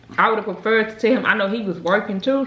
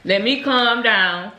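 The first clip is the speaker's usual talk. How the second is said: slow calming; slower than usual. Retold or imitated. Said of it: "I was like".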